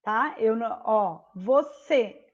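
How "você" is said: "você" spaced out, strong final cê; stressed last syllable. Shown as a demonstration. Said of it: "a sílaba mais forte é o".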